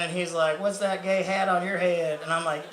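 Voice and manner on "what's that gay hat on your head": lightly voiced Southern dad; super Southern dad. Dad jibes about the sun hat, light Southern accent. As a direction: imitate a Southern father's jibe. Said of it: "'cause he's super Southern".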